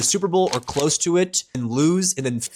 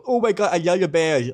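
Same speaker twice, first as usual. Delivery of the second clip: lisping imitation of a Bears fan friend, higher pitch; mimicking friend's lisp; 4 semitones higher than usual. Mocking Kyle's gushing about the Bears in a lisp. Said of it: "with his little lisp voice".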